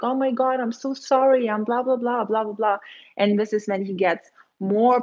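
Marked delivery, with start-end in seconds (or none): 0.0-2.8 higher, hammed-up begging; mock frantic apology. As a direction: mimic a desperate girl gushing sorry. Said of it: "you're gonna be like".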